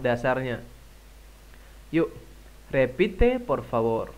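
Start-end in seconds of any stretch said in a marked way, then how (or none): 1.9-4.1 slow, clear classroom prompt; slow instruction. Shown as a demonstration. Teacher asks students to repeat, slow and clear. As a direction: ask the class to repeat, slowly. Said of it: "kalau misalnya saya bilang repite por favor".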